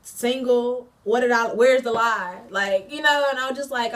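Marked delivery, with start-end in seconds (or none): 0.0-2.4 retold indignant challenge, getting louder; building retold outrage; going off indignantly. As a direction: act out going off on your ex. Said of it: "I just went off".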